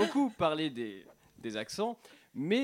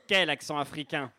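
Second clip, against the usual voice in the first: put-on African accent; 4 semitones lower than usual. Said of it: "Je m'adresse maintenant à accent africain".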